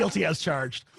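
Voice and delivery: laughing at own joke; corny dad laugh. Real, not acted. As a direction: chuckle it out, guilty. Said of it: "that was a total dad joke".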